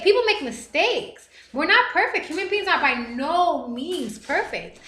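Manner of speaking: pleading for second chances; passionate plea. Real, not acted.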